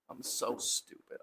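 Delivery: murmelt sich selbst genervt zu; self-scolding mutter. Real, not acted. Muttering at himself, forgot straps.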